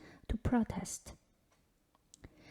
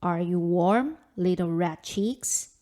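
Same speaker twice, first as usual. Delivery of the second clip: put-on lower, louder wintry old spirit; Father Frost voice; 3 semitones lower, 7 dB louder than usual. A narrator's reading. Father Frost testing the freezing girl, low and looming.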